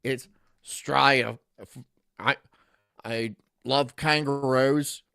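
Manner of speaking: a hint of a mock Australian accent. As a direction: have a tentative go at an Australian accent. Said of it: "give us your best Australian accent".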